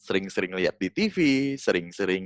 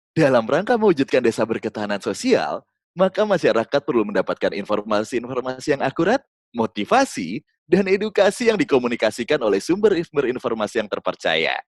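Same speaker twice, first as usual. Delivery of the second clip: giggling voice; 2 semitones higher than usual. Shown as a demonstration. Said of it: "Saya akan menambahkan ketawa-ketawa".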